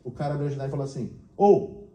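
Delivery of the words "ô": loud, higher driver's hail; retold shout for attention; calling out. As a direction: holler to passers-by from the cab. Taxi driver calls out from window.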